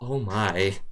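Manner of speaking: terrified, confused, bewildered exclamatory tone. Voicing the Troll Master who sees Amita tumble down stairs: terrified and confused. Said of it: "both terror and confusion as he repeats".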